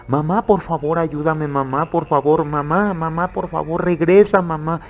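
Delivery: retold panicked plea to mother; desperate pleading. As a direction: beg mom to come back in a panic. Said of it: "empiezo a gritar".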